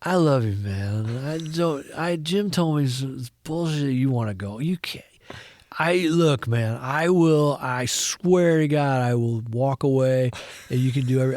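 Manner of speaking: imitating a tipsy, effusive director; mock-drunk earnest pleading, words sliding together; drunken slur. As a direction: slur it like a few tequilas in. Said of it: "he's got the greatest, like, slur".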